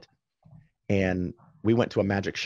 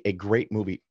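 air quotes. Shown as a demonstration. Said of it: "radio air quotes".

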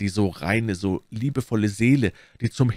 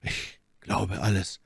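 slow, hushed answer; grave; 5 dB quieter, slower than usual. A narrator's reading. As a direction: say it softly, weighing each word. Athos answers, grimly biting his lips. (leise und schwer)

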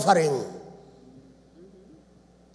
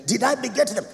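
mocking complaint. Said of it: "Ukisikia man of God ameongea hivi".

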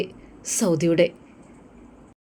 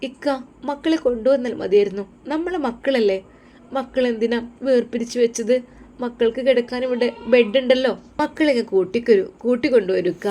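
higher wife voice, gently pleading; pleading young wife; 5 semitones higher than usual. Acted. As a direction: coax him to bring the kids.

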